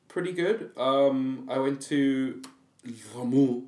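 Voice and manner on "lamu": Lamu said with an accidental French accent. Real, not acted. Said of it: "I'm saying a French accent".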